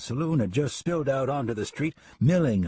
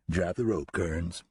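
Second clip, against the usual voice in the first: calm; 5 semitones lower, slower than usual. Acted. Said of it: "Sam said calmly".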